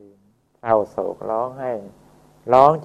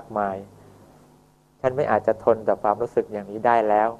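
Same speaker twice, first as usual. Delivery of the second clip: earnest pleading. Acted. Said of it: "เขาก็จะขอร้องอย่างนี้".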